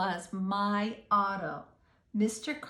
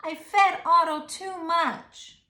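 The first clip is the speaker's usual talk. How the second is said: upset; 8 semitones higher, 9 dB louder than usual. Acted. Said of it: "I said".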